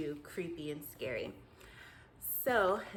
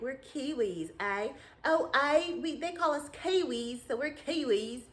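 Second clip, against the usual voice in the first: a hint of a New Zealand accent; lightly put-on New Zealand accent; Kiwi accent; 5 semitones higher, 4 dB louder than usual. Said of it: "I'm still working on my Kiwi accent".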